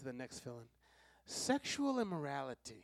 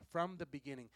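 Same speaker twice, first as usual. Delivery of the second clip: quiet answer; 4 semitones lower, 7 dB quieter than usual. Real, not acted. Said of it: "But it was not this way from when?".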